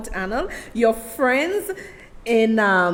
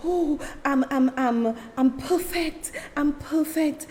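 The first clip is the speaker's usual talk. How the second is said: mock perfect act; 5 semitones higher than usual. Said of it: "pretend that".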